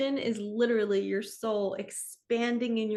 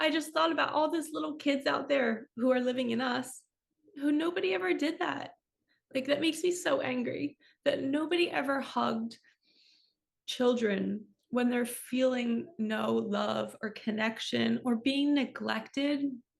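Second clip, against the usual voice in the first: crying through the words, voice tearful and breaking; 4 semitones higher than usual. Speaker opening up in conversation, moved to tears, crying while speaking. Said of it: "I have no idea why I'm crying".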